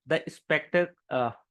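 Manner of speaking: real stumble on "spectac-", breaking off into a hesitant filler; "spectac-" cut short, unable to get the word out; stumbling over pronunciation. Real, not acted. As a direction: try "spectac-" and give up before the word is finished. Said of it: "मेरे को ही pronounce करते नहीं बन रहा है".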